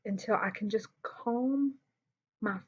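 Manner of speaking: whispered. Real, not acted. Whispered in telling.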